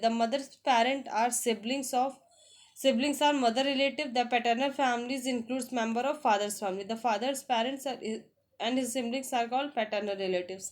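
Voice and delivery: slow, careful English read-aloud; slow textbook reading. Shown as a demonstration. Teacher reading the family lesson to students, slow and deliberate. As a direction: spell it out slowly for learners.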